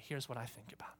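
soft unvoiced whisper. Real, not acted. Preacher whispering to congregation before the point. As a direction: drop to a confiding whisper. Hushed sermon aside.

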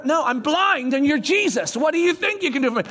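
exasperated retort. Acted. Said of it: "That's what I would have said".

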